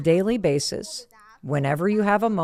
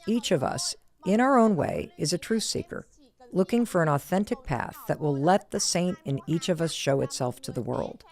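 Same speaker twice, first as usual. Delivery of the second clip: reading aloud. Acted. Host reading a favourite book's introduction to listeners, reverent reading. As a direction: read it like a cherished meditation.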